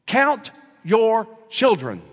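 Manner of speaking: put-on a child's pointed reminder, drawn out; daughter's voice on the phone. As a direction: scold Dad slowly down the phone. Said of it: "The voice sounded familiar".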